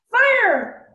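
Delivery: screaming. A narrator's reading. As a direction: bound magician screams the spell word in rage. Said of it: "Wayne screamed".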